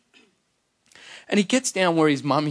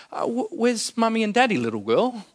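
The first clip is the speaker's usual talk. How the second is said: kindly stranger; 6 semitones higher than usual. Retold or imitated. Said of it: "You would walk up to her and you'd say".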